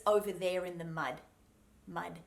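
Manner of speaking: "mud" ending on a very soft D; "mud" with a light final D; really soft D. Shown as a demonstration. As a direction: release the D of "mud" ever so gently. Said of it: "would just be a really soft".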